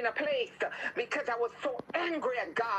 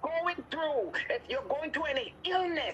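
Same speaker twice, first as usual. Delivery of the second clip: higher-pitched, insistent preaching; fervent healing prayer; 4 semitones higher than usual. Real, not acted. Preacher addressing sick livestream listeners, fervent prayer. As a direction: pray urgently over the sick.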